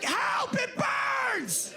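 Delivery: panicked husband. Retold or imitated. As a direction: squeal like he's on fire. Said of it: "He's like".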